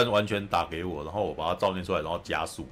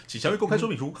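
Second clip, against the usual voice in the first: higher mock ad disclaimer; fast legal disclaimer; 10 semitones higher than usual. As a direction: parody a grudging insurance ad warning. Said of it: "就讲超快".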